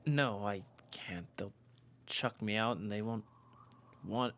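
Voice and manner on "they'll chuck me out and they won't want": barely voiced whisper; whispered fear. Josh confessing his fear to Mary, whispered. Fearful confession of being gay.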